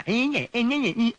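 high-pitched jeering snicker; taunting, sing-song "nye-nye" laugh; mocking laughter. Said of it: "എന്താടോ ഇത്ര ചിരിക്കാൻ".

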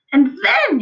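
high, loud, drawn-up anticipation; excited cry. A narrator's reading. Father too excited to listen, crying out. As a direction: announce the next step with gusto. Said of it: "he cried".

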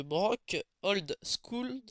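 put-on « Brock Old School » lent, avec un accent anglais forcé; l'accent anglais exagéré, mot par mot; accent anglais raté. Shown as a demonstration. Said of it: "mon accent anglais est éclaté". (accent anglais éclaté, lent et appuyé)

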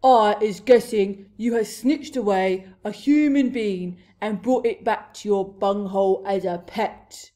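loud, menacing giant voice; booming. A narrator's reading. Blood Bottler threatening to eat the pet, booming. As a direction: thunder out the threat. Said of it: "boomed the Blood Bottler".

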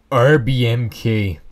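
slow drawn-out pirate growl of R B M K. Shown as a demonstration. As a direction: say the letters slowly like a pirate. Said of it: "the proper way to say R B M K is to say it like a pirate".

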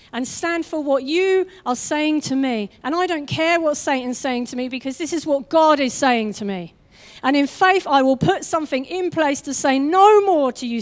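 a believer declaring faith against Satan; bold faith declaration. Acted. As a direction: stand firm and proclaim it. Voiced bold prayer of faith.

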